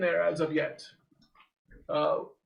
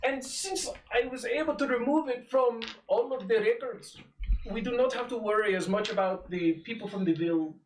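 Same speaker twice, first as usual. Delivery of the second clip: lightly voiced old sage; a hint of a wise old mentor; old man voice. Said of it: "Indian Deckard Cain".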